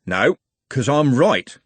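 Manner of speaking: slow, even constable's voice; calm and unbothered; evenly. Acted. Haddock answering Trev, slow and even. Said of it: "said Constable Haddock evenly".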